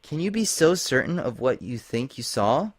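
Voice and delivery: a hint of a calm, reasoning pony; reassuring Lyra. A narrator's reading. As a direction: gently talk her down.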